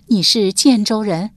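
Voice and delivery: loud, slow, astonished question; old woman can hardly believe it; surprised and delighted. A narrator's reading. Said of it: "老妪也是又惊又喜道". (又惊又喜地大声追问)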